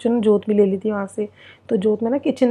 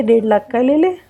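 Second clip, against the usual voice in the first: lovingly. Retold or imitated. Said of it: "बड़े प्यार से इन्होंने बोला".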